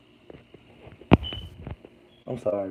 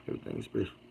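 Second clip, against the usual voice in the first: quiet read; 4 semitones lower, 12 dB quieter, much faster than usual. Real, not acted. Reading a comment under breath.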